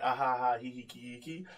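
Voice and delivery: hollow ha-ha tailing off into quiet hee-hees; put-on polite laughter, fading; fake laughing. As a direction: fake a laugh just to play along. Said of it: "I was, like, fake laughing".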